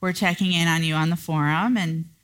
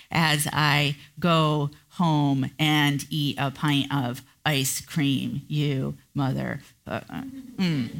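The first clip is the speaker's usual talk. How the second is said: passive aggressive mutter; 3 semitones lower than usual. Retold or imitated. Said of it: "in a very passive aggressive way".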